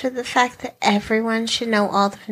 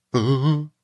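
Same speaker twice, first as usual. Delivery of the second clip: word caught on a coming sneeze; about to sneeze; 9 semitones lower than usual. Real, not acted. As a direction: talk through a building sneeze. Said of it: "Sounds like you're about to sneeze".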